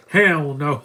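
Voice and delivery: loud mock exclamation; accent dropped. Fan mimicking an actor who drops his Jamaican accent, loud mock outburst. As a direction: imitate an actor blurting it out, no accent. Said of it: "he doesn't even do the accent".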